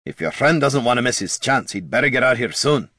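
irritable character grumble; grumbling. Acted. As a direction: grumble impatiently about the wait. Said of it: "grumbled Gorm".

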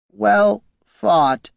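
high, warped construct voice; a dying machine's last words; warped golem voice. Acted. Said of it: "its voice warped".

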